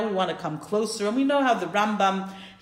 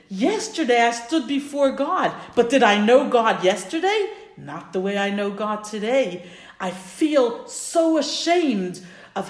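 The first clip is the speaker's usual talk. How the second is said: raised, emphatic retold soul-searching; impassioned reflection; 3 semitones higher, 4 dB louder, slower than usual. Rabbi tells of standing before God, impassioned soul-searching. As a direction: press each phrase with earnest intensity.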